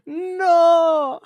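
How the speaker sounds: high, loud cry of "No!"; mock outraged shout. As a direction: yell it in playful outrage.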